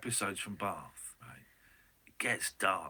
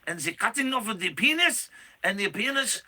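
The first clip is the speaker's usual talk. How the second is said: hammed-up Swiss lament, a bit higher; playful fake Swiss voice, slightly raised; mock Swiss accent; 3 semitones higher, 3 dB louder than usual. Host voicing a Swiss citizen about Paul's return, mock Swiss accent. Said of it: "It's a Swiss accent".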